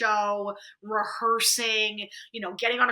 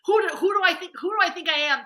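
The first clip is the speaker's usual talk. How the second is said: higher-pitched self-doubting voice; mock self-reproach; 6 semitones higher, faster than usual. Inner critic scolding her for reaching too high, mock self-reproach. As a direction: lightly act out the nagging inner critic.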